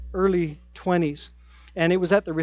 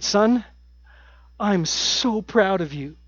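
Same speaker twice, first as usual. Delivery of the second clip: choked-up father; 2 semitones higher, slower than usual. Retold or imitated. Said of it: "as he was choked up a bit".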